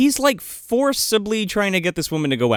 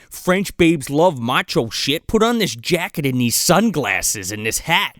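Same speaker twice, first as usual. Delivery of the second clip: mock buddy; 5 semitones lower than usual. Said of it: "his buddy's like".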